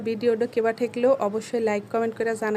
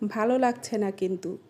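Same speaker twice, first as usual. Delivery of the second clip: standard Bengali pronunciation. Shown as a demonstration. Complaining of not liking it, standard Bengali. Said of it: "এটাকে বলি".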